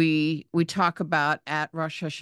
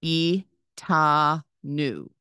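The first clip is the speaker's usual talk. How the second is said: Itanu stretched slowly, i-ta-nu, falling; slow model reading; much slower than usual. Shown as a demonstration. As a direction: sound out Itanu for the class, very slow. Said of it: "The next word is itanu".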